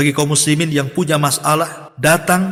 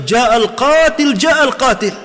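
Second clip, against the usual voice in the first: high excited shout, slow and louder; crowd shouting; 10 semitones higher, 4 dB louder, much slower than usual. Retold or imitated. The crowd shouting that the killer has come back. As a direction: cry it out like a stirred crowd. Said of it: "orang-orang berteriak".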